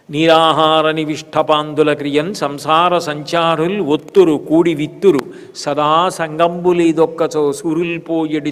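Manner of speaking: measured recital of a classical Telugu poem; lightly declaimed Telugu poetry; verse recitation. Acted.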